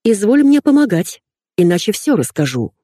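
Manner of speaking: demanding. Retold or imitated. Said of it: "позвонила и заявила".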